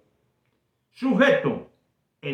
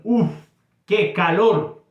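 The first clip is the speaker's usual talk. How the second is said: a mild exclamation, louder on "calor"; 3 semitones higher, 4 dB louder, slower than usual. Shown as a demonstration. Teacher demonstrating an exclamation to students, mildly exclaimed. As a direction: sigh out "Uf" then exclaim about the heat. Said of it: "Eso es una exclamación".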